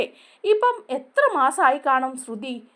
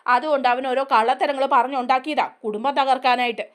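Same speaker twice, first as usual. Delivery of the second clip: angry scolding; 2 semitones higher, 3 dB louder than usual. Retold or imitated. Mother scolding her son Sachi for spreading lies, angry and raised. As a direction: demand answers from him, raised voice.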